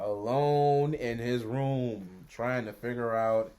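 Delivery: a hint of Morgan Freeman telling a story; mock Morgan Freeman narration. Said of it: "that's his narrative voice".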